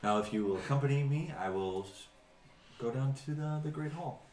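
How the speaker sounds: formal, welcoming host; courteous host figure. Acted. Game master's host inviting nobles to the feast, courteous and formal. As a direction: address honored guests with courtly politeness.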